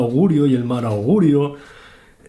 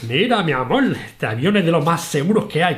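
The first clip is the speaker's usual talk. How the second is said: lightly imitated Cuban accent, a bit higher; 4 semitones higher than usual. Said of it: "con ese acento cubano".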